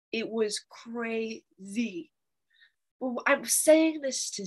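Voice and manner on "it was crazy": very slow and softer, words stretched; slow drawn out. Real, not acted. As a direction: linger on each word in disbelief. Repeated, slowing and softening.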